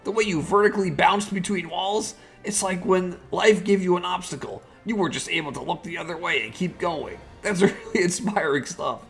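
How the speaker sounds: starstruck. Acted. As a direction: gush like a starstruck fan. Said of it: "I'm actually a little starstruck right now".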